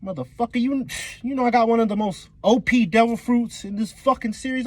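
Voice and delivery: high-pitched indignant warning; hammed-up defiant protest; standing up for himself. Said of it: "I wish Buggy would stand up for himself".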